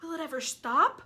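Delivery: high, loud shout; loud excited aunt shout. Acted. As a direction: yell it while dancing about. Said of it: "Aunt Sponge shouted".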